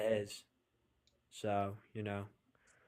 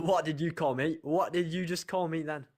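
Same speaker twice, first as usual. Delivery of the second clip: surprised laugh; 4 semitones higher, 4 dB louder than usual. Real, not acted. Reacting to being called good boy.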